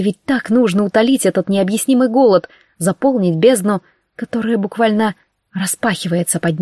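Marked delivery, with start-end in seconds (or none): none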